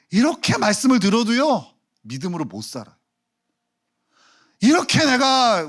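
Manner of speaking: ordinary talk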